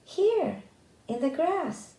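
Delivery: shouting. A narrator's reading. Tom calling to the thieves.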